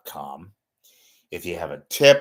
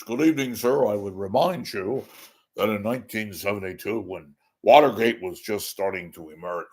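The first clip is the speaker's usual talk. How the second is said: John Rothman impression. Host showing listeners how John Rothman talks, lightly voiced. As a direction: gently mimic a measured old talk show host. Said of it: "he would talk like this".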